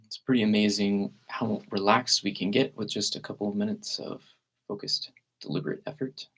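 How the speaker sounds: calm meditation guide with long, unhurried pauses; guided meditation. Real, not acted. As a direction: gently lead listeners into relaxed breathing, leaving space between phrases.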